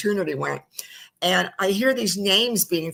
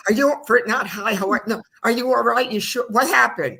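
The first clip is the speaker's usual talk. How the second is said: worried Jewish lady; 6 semitones higher than usual. Retold or imitated. Host imitating herself fussing over her surprised friend. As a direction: fuss over him like a worried mother. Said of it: "the typical Jewish lady kicked in there".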